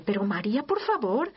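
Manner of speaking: a touch of hammed-up annoyance; mock irritated complaint. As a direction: pretend José snapping at Mary, half-hearted. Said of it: "San José diciéndole".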